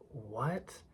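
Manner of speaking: a stunned breathy what, barely voiced; shocked whisper. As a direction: whisper it in disbelief. Shocked reply in retold scene.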